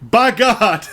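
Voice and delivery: mock-astonished wrestling play-by-play, high and slow; J R Ross. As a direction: imitate an outraged ringside announcer. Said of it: "next to J R Ross".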